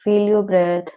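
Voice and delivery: slow, spaced-out instructions; guided meditation. Shown as a demonstration. Teacher easing students out of meditation, slow guidance. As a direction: guide them slowly out of the practice.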